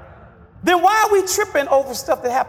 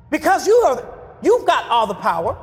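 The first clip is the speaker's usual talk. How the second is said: preacher leading the congregation's words; preacher's call for the congregation to echo; call and response; 3 semitones lower than usual. Shown as a demonstration. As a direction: lead them to repeat after you.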